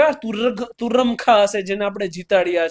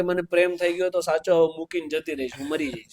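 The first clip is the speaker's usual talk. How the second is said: mock heartbroken plea, fading to a whisper; mock lovesick plea; 4 semitones lower, 4 dB quieter than usual. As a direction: play the lovesick caller, sinking to a breathy hush. Young callers' lovesick plea retold. (પ્રેમમાં હારેલા યુવાનની નકલ, અંતે ધીમો ફફડાટ)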